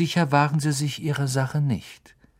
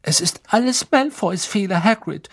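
higher, earnest and firm; serious; 8 semitones higher than usual. A narrator's reading. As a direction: insist seriously. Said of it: "mit ernster Stimme".

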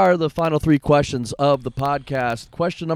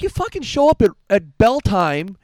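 loud scolding yell, dragging out bell time; retold loud scold; angry yell; 7 semitones higher, 6 dB louder than usual. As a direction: bark it at the late kid. Yelling at late ring crew kid.

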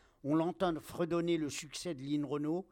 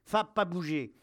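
raised, firm command to stay; firm dog command; 3 semitones higher, 6 dB louder than usual. Acted. Soldier to his growling dog, firm raised command. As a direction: hold the dog back firmly.

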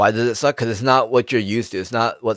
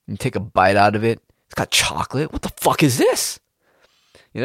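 confused monkey; 2 semitones higher than usual. Retold or imitated. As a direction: act out a caveman puzzled by a cookie. Primate finding a cookie.

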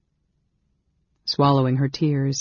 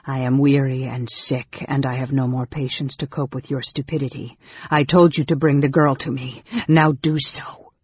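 weary, sneering command. Acted. Sick mage scolding his brother, weary command. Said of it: "said the whispering voice".

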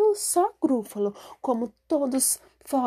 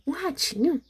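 higher, curious question; surprised echo; 6 semitones higher than usual. Acted. Gruffalo echoing the mouse, pleased to find food, surprised. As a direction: pick up the word with glee.

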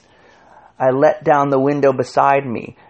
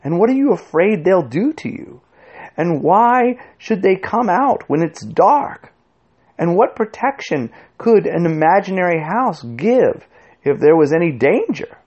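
high-pitched, insistent questioning; irritated, unguarded full voice; a little annoyed; 7 semitones higher than usual. A narrator's reading. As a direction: press him with each question, forgetting to whisper. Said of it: "being a little annoyed".

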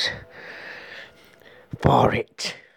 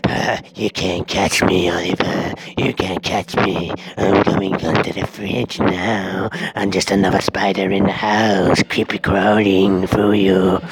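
a creepy spider gloating over revenge; 2 semitones lower than usual. Acted. Spider taunts from under fridge.

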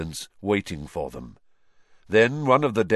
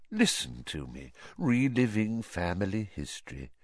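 quietly; 5 dB quieter than usual. Acted. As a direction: murmur it to yourself. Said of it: "he said quietly".

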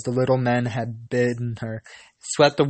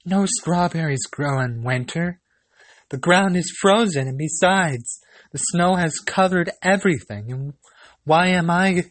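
put-on higher, distressed young girl; pleading girl; 5 semitones higher than usual.

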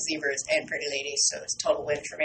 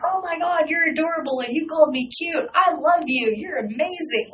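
gushing, much higher and louder; fangirling out; 9 semitones higher, 3 dB louder than usual. Retold or imitated. Meeting the singer's girlfriend, retelling her high excited gushing. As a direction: gush like a starstruck fan. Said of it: "Like, just fangirling out".

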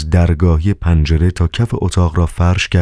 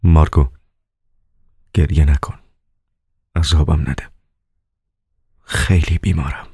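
dry. A narrator's reading. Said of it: "به خشکی گفت".

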